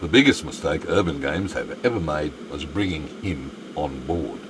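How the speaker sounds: a hint of a smooth promo read; radio voice. Shown as a demonstration. Streamer demoing his radio voice to chat, mild announcer tone. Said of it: "That's the radio voice".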